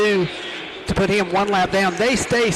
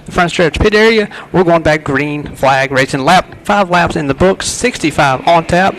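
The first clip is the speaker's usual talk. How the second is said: excited race call; 9 dB louder than usual. Real, not acted. Live race call, green flag.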